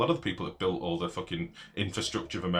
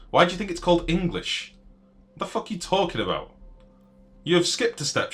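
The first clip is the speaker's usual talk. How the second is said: exasperated yell; 9 semitones higher, 4 dB louder than usual. Real, not acted. Arguing with chatter Shivan.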